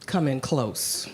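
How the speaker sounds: ordinary delivery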